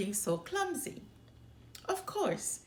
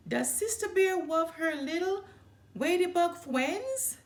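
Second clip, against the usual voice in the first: higher, louder mocking baby talk; silly baby talk; 8 semitones higher, 4 dB louder than usual. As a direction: coo it like teasing a toddler. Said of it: "he said in a silly baby talk voice".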